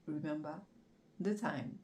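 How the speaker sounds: English with a French accent; English sign-off in a clumsy French accent; poor English accent. Real, not acted. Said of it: "Mon accent un peu, hein, nul".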